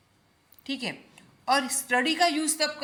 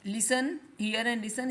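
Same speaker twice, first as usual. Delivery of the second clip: slow model words; much slower than usual. Shown as a demonstration. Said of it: "teacher says vocabulary slowly".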